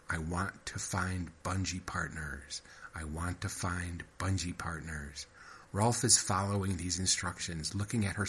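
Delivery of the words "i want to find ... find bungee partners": softly repeated mantra, unhurried; slow inward affirmation. Acted. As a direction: murmur it like a wish to the universe. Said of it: "form the thought".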